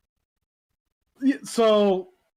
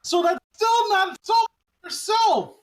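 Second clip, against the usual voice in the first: higher, louder indignant yell; outraged shout; 11 semitones higher, 6 dB louder, slower than usual. Real, not acted. Friend ranting about a comic plot, shouting. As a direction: blurt it out in disbelief at the plot.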